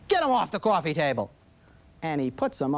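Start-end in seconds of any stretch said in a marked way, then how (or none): 0.1-1.3 put-on mildly exasperated order to a child; annoyed parent. Parent to a child who moved feet onto the table, mildly annoyed. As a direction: say it with a touch more annoyance. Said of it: "with a little more annoyance in your voice".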